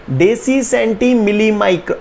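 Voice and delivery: slow, separated drill words. Shown as a demonstration. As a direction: say each prefix slowly for the class to repeat. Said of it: "बोलो धीरे धीरे". (बच्चों के लिए धीरे-धीरे रटवाना)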